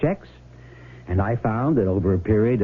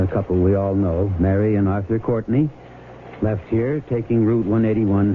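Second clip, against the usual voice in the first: formal public appeal on the air; measured official broadcast voice; radio appeal. Acted. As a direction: address the townsfolk like a sheriff on radio.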